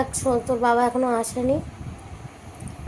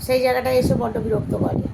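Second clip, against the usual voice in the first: annoyed complaint; 2 semitones higher than usual. Real, not acted. Mother tells viewers how the kids disturb her filming, annoyed. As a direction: let the irritation spill out as you complain.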